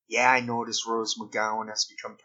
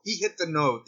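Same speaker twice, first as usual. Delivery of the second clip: mock sports call; 5 semitones higher than usual. Imagined Note Ball commentary.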